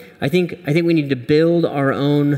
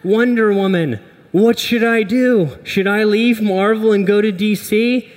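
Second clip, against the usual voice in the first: Hulk voice; 6 semitones higher than usual. Acted. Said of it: "and be like".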